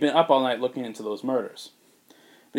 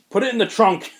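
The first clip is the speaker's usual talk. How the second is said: mock exasperated; 9 semitones higher, 6 dB louder than usual. Deadpan answer to bike.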